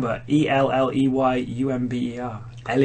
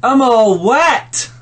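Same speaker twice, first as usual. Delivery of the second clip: high squeaky voice; 10 semitones higher, 5 dB louder, much slower than usual. Acted. Character voice in silly story.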